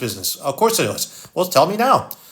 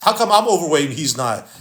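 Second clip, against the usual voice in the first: mock complaining. Imitating the guy who never works out, mock complaining. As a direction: imitate a self-pitying complainer. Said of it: "he complains like".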